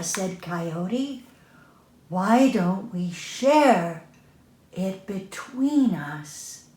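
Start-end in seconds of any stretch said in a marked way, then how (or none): 2.1-6.6 slow gentle offer. Acted. Coyote proposes peace.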